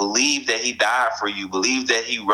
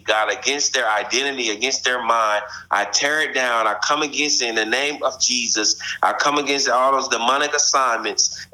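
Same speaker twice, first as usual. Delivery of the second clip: quick prayer. Real, not acted. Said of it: "I'm gonna say a quick prayer".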